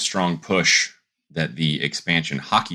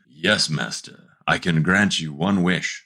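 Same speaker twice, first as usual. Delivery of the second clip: genie voice; slower than usual. Retold or imitated. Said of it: "Out comes the genie".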